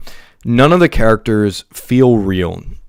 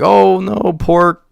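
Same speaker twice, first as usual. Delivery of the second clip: mock sorrow; 5 semitones higher, slower than usual.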